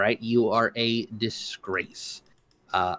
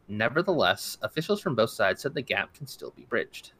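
steady, even news-reader delivery. Acted. Host reading a Brexit news story to listeners, news-read style. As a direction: read it like a wire report to listeners.

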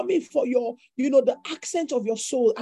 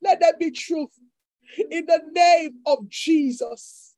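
slow, louder proclaiming cry; preaching proclamation; 4 semitones higher, 4 dB louder, slower than usual. Real, not acted. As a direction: call it out over the church. Preacher proclaiming at service start.

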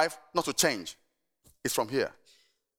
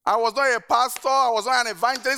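preaching emphasis; 5 semitones higher, 5 dB louder than usual. Real, not acted. Pastor preaching emphatic list.

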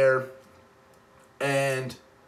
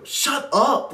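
much higher, louder retold outburst; urgent mock hushing; 10 semitones higher, 5 dB louder than usual. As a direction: imitate a panicked friend silencing the group. Friends hushing as light approaches.

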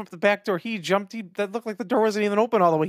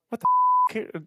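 alarmed; much slower than usual. Retold or imitated. Scared vet alarm.

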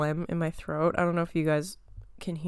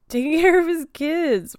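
high, louder, breaking into laughter; laughing; 10 semitones higher, 6 dB louder than usual. Real, not acted. Vlogger joking about Brad Pitt, laughing. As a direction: crack up at your own joke.

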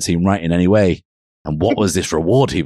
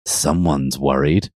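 low, slow tease; understated storybook seduction; mock seductive; 4 semitones lower, slower than usual. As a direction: draw it out seductively. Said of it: "in a seductive voice".

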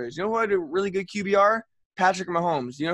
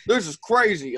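sarcastic. Retold or imitated. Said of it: "like, so sarcastically".

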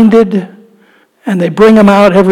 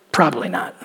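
"Probably not" much lower and softer, tossed off; dropped aside; 6 semitones lower, 12 dB quieter, faster than usual. Acted. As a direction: mutter "Probably not" under your breath. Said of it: "answering own question".

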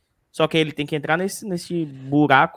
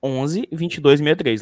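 slow, spelled out; 3 semitones lower, slower than usual. Shown as a demonstration.

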